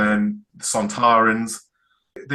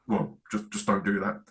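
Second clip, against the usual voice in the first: softer, hushed plea from a shaken Doctor; quiet shaken plea; 3 semitones lower, 7 dB quieter than usual. Retold or imitated. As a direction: ask her quietly, still rattled. Shaken Doctor begs Donna quietly.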